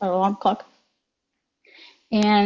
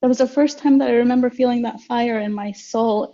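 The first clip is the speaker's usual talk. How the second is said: emotional; 3 semitones higher than usual. Real, not acted. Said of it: "sorry, I'm getting emotional".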